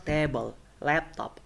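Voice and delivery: table and laptop punched on TA and LAP; first-syllable stress. Shown as a demonstration. Teacher giving noun examples, TA-ble, LAP-top. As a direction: hit the start of table and laptop. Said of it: "stress will be on first syllable".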